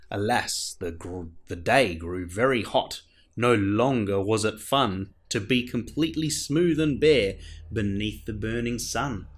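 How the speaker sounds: put-on lively read-aloud for children; gentle sing-song story narration; storybook reading. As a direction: read it like a bedtime picture book. Reads a picture book aloud.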